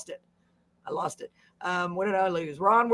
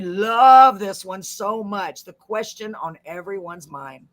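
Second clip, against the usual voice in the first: radio-style comment read; 4 dB louder, slower than usual. Shown as a demonstration. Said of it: "I was doing my reading voice".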